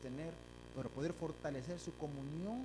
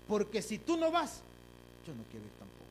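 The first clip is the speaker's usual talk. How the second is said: pleading cry; 5 semitones higher, 7 dB louder than usual. Acted. Voiced prayer, sudden high cry.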